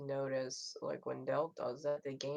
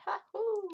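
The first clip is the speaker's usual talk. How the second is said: loud, high-pitched "ha-hoo"; playful high whoop; 6 dB louder than usual. Real, not acted. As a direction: let out a high cartoonish whoop. Playful noise amid chat.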